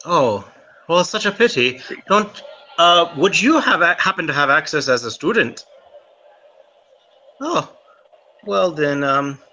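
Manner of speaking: coaxing, wheedling Irish charm; butter him up to get in; charming schmooze. Acted. Irishman schmoozing Remy to get into the library, coaxing. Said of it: "I'm trying to, like, schmooze him".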